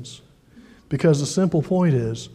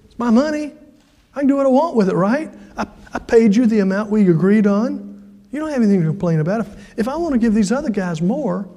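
higher-pitched retort, lightly acted; defensive owner; 5 semitones higher, faster than usual. Vineyard owner answers upset workers about his money, defensive. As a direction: imitate an employer justifying himself to complainers.

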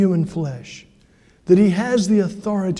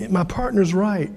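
retold helpless plea, climbing higher; apologetic debtor; 3 semitones higher than usual. Debtor admits to pastor he can't repay, apologetic. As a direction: imitate an embarrassed debtor pleading, pitch rising toward the end. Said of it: "sitting there with his head down".

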